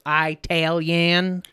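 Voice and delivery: Italian drawn out as EYE-TAL-yan; mock mispronunciation. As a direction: echo Italian very slowly with a long "eye" up front. Mockingly echoes the word Italian.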